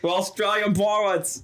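light mock Australian accent; pirate with a put-on Australian twang; hint of Australian pirate. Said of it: "They're all from Australia".

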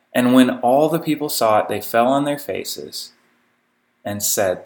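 measured, solemn Bible reading; scripture reading. Acted. Preacher reading scripture to his congregation, measured and solemn. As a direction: read the passage aloud to the congregation.

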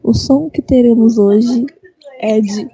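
mock sensual ASMR voice; sultry narrator. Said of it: "com essa voz sensual".

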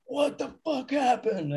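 high, slow mock outburst; hammed-up furious singer; mock angry. Singer yelling at his crew after crashing into the truss, high and slow in mock rage. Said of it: "he comes down and goes".

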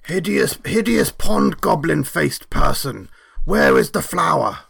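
mock outrage at a foe; indignant insult. In-character insult demanding the flower.

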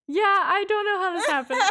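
high, laughing disbelief; imitating bemused director. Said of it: "the director writer is just like".

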